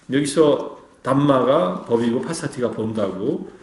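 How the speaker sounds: usual speaking voice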